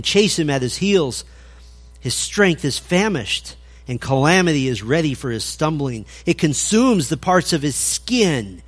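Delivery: measured, solemn reading aloud of scripture; a steady pulpit reading voice. Acted. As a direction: read the verses like a grave warning. Reads a long scripture passage.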